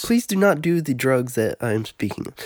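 lightly voiced stiff white guy, softly formal. Storyteller playing along with the joke, stiff white guy voice. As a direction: recite it as a hint of a square white guy. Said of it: "As the white guy".

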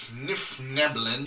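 gnome name, game master feeling through "Svifnifneblin" slowly; struggled pronunciation. Real, not acted. Game master tackling a gnome race's name, struggled pronunciation. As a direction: stumble slowly over "Svifnifneblin" with extra syllables. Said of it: "I can never pronounce this word".

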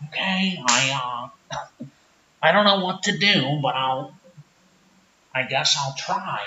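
low-pitched sheepish small-town guy; Rick character. Acted. Rick unsure.

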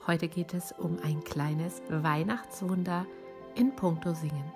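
slightly raspy, hoarse from bronchitis; a light rasp after being ill. Real, not acted. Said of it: "meine leichte Reibeisenstimme".

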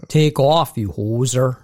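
Canadian accent, stretched O in hoser; showing how to do the Canadian accent. Shown as a demonstration. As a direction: demo a Canadian hoser line. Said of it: "Like that".

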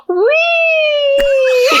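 high gleeful shriek, laughing through it; high-pitched laughing "wee"; retold drunk "wee" scream. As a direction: squeal it like a giddy drunk running around.

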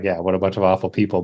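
quick, fake supportive agreement; Six feigning support to Blossom, hurried and fake; half-hearted support. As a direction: agree fast without meaning it. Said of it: "being supportive".

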